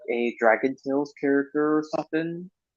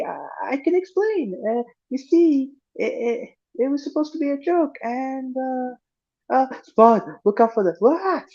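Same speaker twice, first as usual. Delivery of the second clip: Spud stammering; 11 semitones higher than usual. Retold or imitated. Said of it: "It goes like this".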